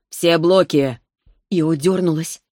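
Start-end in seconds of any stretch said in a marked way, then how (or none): 0.1-1.0 barked order, louder; commanding shout. Acted. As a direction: call out the command. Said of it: "приказал Арис Лифтерио".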